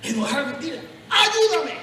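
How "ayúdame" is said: loud high plea; crying out to God. Pretend. Sinner calling on God for help, a loud plea. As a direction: call out for help, pleading.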